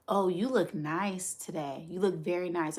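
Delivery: gentle, sincere compliment; sweet tone. Shown as a demonstration. To a friend, complimenting her look sweetly. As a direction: say it kindly and mean it. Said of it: "You could say something in a sweet tone".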